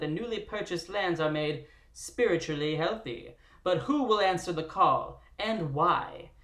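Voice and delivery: booming nineteen twenties radio narrator; old radio announcer. Pretend. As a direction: read it like an old-time radio host. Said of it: "in an annoying, old-timey radio voice".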